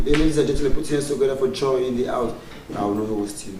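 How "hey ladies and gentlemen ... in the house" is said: a touch of stage announcer; louder, lifted introduction to the crowd; MC calling guest up. Acted. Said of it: "I would only call you".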